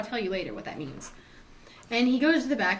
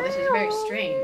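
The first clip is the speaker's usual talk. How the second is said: high-pitched mock puzzlement; very high, wailing character voice; puzzled police; 4 dB louder than usual. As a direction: pipe it up high like baffled cops. Police react, voiced in story.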